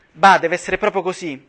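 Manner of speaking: Koch realising the women are inside; amazed shout. A narrator's reading. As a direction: burst out in astonishment. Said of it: "gridò meravigliato Koch".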